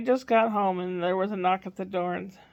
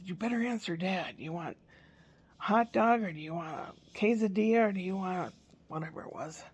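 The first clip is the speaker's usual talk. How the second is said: hushed urging; 6 dB quieter than usual. Retold or imitated. Grandma urging child quietly.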